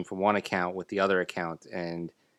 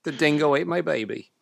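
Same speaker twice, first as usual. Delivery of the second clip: higher-pitched put-on Aussie quote; mock Australian accent; 7 semitones higher, 4 dB louder than usual. Co-host joining the joke about the Australian girl, mock Australian accent. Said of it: "She had an Australian accent".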